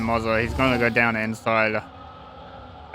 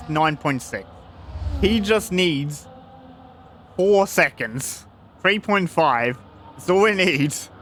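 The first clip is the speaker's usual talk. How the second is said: excited commentary; 4 semitones higher, slower than usual. Real, not acted. Tense gap countdown.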